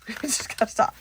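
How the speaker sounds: laughing through the repeat. Real, not acted. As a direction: giggle as you say it again.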